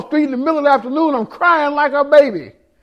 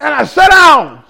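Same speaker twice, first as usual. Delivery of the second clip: slow dramatic shout. Acted.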